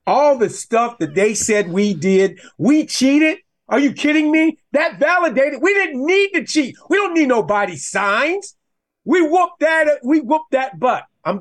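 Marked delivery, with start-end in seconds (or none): 2.6-8.6 high-pitched, incredulous protest; bursting out in disbelief at the accusation; indignant outburst. Real, not acted. Indignant outburst about cheating claims. 9.0-11.0 much higher, exultant crowing; pitched-up victory boast; triumphant gloating. Real, not acted. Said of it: "I'm gonna keep it together".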